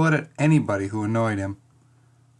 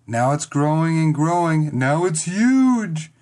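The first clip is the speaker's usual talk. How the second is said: building wonder; 4 semitones higher, 4 dB louder, slower than usual. Acted. Making the cat's shadow dramatic.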